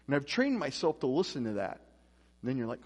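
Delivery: ordinary delivery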